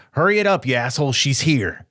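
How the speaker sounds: gravelly sly hobgoblin barking orders; gruff voice. Acted. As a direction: bark it out, rough and sly. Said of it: "a gruff voice go".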